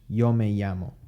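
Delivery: Yo with a plain English y as in yellow. Shown as a demonstration. Teacher contrasting the yellow y sound in Yo me llamo. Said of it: "like the word yellow in English".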